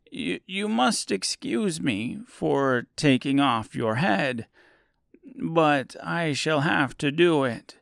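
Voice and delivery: a hint of a soothing wizard. Wizard Oz explains to Scarecrow.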